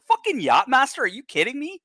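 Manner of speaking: mocking how people used to see it; incredulous scoff. Real, not acted. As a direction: toss the question off in disbelief. Mocking the Yachtmaster's old reputation.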